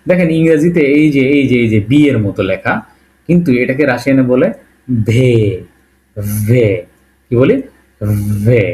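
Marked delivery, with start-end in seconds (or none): 5.1-8.6 ভে, v sound with e, not English বি; Russian ve. Shown as a demonstration. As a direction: say ভে as Russian В, slowly repeated. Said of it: "উচ্চারণটা ঠিক আমি যেভাবে বলতেছি এভাবে করার try করবেন".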